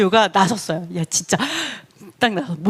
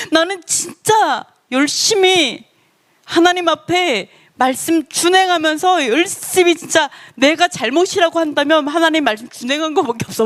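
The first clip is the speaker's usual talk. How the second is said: protesting innocence; 4 semitones higher than usual. Retold or imitated. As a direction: act out insisting you did nothing wrong. Acting Job protesting his innocence. (억울한 듯 높은 톤으로 결백을 주장)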